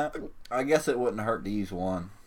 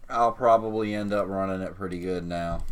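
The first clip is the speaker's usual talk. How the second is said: talking through hiccups; 2 semitones lower than usual. Real, not acted. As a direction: speak between hiccups. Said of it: "Damn hiccups".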